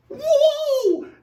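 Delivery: very high loud whoa; mock amazement. Shown as a demonstration. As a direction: gasp it out big. Exclamation demo.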